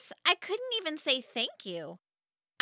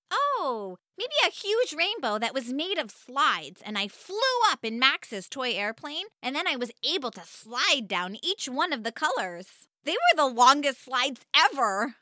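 building excitement, louder by the end; enthusiastic; 3 dB louder than usual. Acted. Girl describing her rainbow slide dream to mom, eager and getting louder. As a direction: gush about the dream slides. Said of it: "I said enthusiastically".

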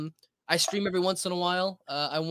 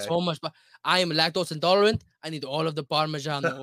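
very Italian American accent; 3 dB louder than usual. Shown as a demonstration. Food show host introducing a recipe, mock Italian accent. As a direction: play up the Italian accent on every word. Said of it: "you're an Italian American, very Italian American".

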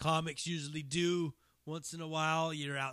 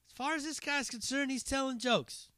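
reasoning with him; 6 semitones higher than usual. Retold or imitated. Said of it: "I was like".

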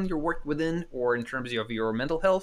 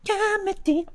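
mock announcer; slower than usual. Intro jingle voice.

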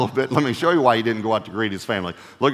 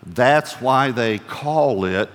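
a father slowly explaining work to his tired son; lecturing dad; much slower than usual. Retold or imitated. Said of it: "I said to him".

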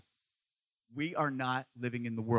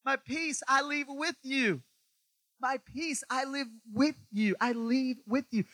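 slow Jesus voice; 9 semitones higher, slower than usual. Retold or imitated. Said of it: "'Cause he said".

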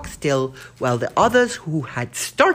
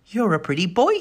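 gentlest voice; 4 semitones higher than usual. Acted. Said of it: "said Danny in her gentlest voice".

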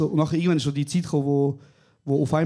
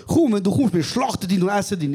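louder, higher, mock-menacing granny; teasing grandma; 4 semitones higher, 3 dB louder than usual. Grandmother jokes she will slaughter and eat him, loud. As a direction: deliver the threat with a laugh. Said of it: "Sie so".

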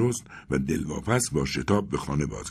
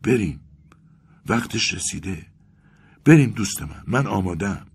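high-pitched, urgent cries; crying out; 5 semitones higher, 3 dB louder than usual. A narrator's reading. Vasya urges his friend to leave, crying out. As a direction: call out eagerly, pitch raised. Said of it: "فریاد زد".

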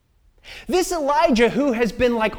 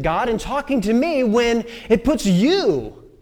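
raised pitch, pressing reproach; hurt accusation; 3 semitones higher than usual. Acted. Elijah confronting God in the wilderness, wounded reproach. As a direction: push the complaint at God in bursts.

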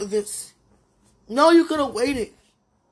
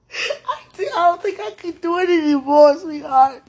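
a sobbing break, then louder; crying out; 3 semitones higher, 5 dB louder than usual. Real, not acted. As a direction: voice cracks high, then pushes out loud. Crying out to sweetheart.

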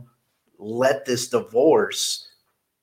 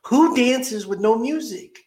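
much higher, drawn-out disbelief; incredulous question; 10 semitones higher, slower than usual. Retold or imitated. Host teasing guest about dancing without music, incredulous. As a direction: puzzle aloud in a raised, stretched voice.

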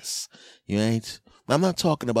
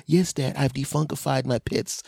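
put-on kid; 7 semitones higher than usual. Kid answers dad.

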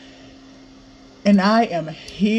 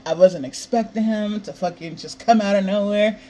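normal talking voice

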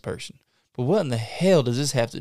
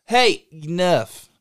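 louder, slowed-down order; stern slow command; 6 semitones higher, 6 dB louder, much slower than usual. Acted. Interrogator ending the rambling, slow loud command. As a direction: shut him down slowly.

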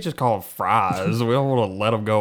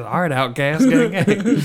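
hype shout-out; 8 semitones higher, 5 dB louder, slower than usual. Real, not acted.

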